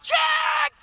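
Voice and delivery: high shouted check; excited shouted roll call. Retold or imitated. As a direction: call it out to the crew. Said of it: "checking her crew".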